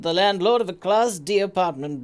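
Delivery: brisk official reading of a state letter; formal letter read. Acted. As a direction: read it like a ministry notice, quick and stiff. Reads the game letter aloud.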